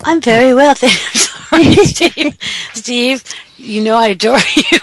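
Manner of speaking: giggly. Real, not acted. Giggly reply to Steve.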